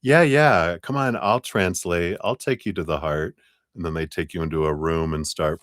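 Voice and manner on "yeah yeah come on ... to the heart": oversell it; slick mind. Retold or imitated. Mind coaxing you like an eager huckster. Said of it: "The mind's gonna go".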